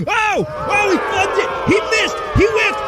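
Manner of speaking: high, loud shouting commentator; excited commentator shout. Acted. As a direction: erupt as the putt misses. Commentator erupts at missed putt.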